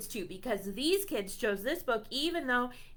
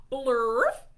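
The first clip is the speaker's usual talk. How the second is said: silly nonsense word; 8 dB louder than usual. Acted. Reads nonsense word aloud.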